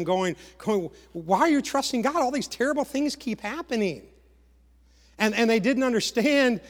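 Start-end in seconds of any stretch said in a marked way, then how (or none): 1.1-4.0 higher-pitched, incredulous questioning; retold disbelieving challenge. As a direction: challenge their trust in God. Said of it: "is questioning them".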